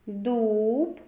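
"Дуб" with a long stretched "у"; vowel drawn out. Shown as a demonstration. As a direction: hold the "у" in "Дуб" so it stands out. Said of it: "У. Голосний". («Дуб» з протяжним «у»)

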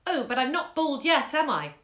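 student mocking Priscilla's serious little voice; imitating a little girl. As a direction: mimic her earnest small voice. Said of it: "imitating Priscilla's serious little voice".

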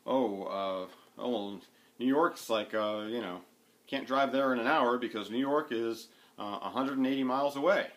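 mock a casual American saying "miles away" with the stress on "away"; imitating an American. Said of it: "they will say something like".

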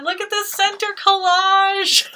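high, thrilled squeal over the collage; delighted high exclamation; excited squeal. Real, not acted.

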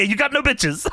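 imitating the papa voice. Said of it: "He's doing this fucking voice".

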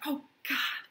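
breathy whispered despair. A narrator's reading. Narrator whispering Gatsby's miserable line. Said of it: "and whispered".

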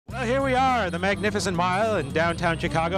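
high jolly Santa voice; booming department-store Santa; Santa Claus voice. Acted. Playing a Santa in a clip.

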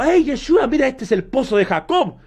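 lightly voiced excited Samaritan woman; a hint of her eager pointing-out. Samaritan woman showing Yeshua the well, lightly acted. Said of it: "la mujer samaritana dijo".

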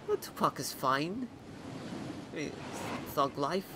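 put-on a lightly done Australian accent for the new guy character; casual Australian accent chatting to viewers. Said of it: "I don't know why I've been given, uh, an Australian accent".

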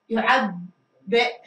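يعبئ stretched very slowly with a rising end; slow model reading. Shown as a demonstration. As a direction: drag out يعبئ so the class hears the hamza. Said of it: "teacher models the word".

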